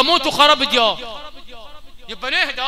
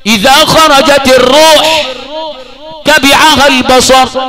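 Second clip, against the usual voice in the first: loud, slow hadith recitation; fervent preaching; 4 semitones higher, 12 dB louder, slower than usual. Acted. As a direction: declaim the hadith solemnly. Quotes hadith in full preaching voice. (إلقاء الحديث بصوت عالٍ وبطء)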